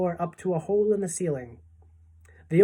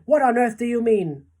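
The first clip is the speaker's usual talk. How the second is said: high, loud baffled question; astonished cry; 7 semitones higher, 7 dB louder than usual. A narrator's reading. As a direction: demand an explanation in astonishment. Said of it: "they cried".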